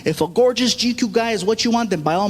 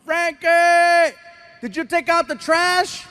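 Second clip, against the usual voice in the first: higher, louder yell across the house; calling out yell; 7 semitones higher, 3 dB louder, much slower than usual. Retold or imitated. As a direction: shout the kid's name from another room. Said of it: "I yell".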